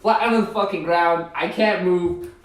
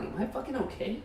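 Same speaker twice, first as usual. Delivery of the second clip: laughing; 6 semitones higher, 11 dB quieter than usual. Retold or imitated. Laughing at own inner panic.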